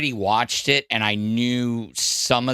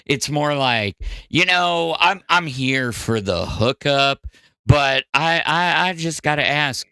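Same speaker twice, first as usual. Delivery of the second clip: slow drawl. Shown as a demonstration. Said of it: "slow al-, uh, recovering alcoholic, uh, drawl".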